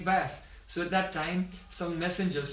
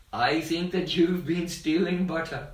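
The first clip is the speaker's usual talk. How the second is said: louder, firm retold accusation; mock scolding with raised volume; accusing; 6 dB louder than usual. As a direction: accuse the boy as his mother, lightly acted. Mother accuses her son.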